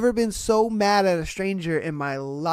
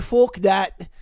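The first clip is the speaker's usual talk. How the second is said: brief put-on Scottish dismissal; mock Scottish accent. Scotsman refusing the answer, mock Scottish accent. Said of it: "Happened in Scotland".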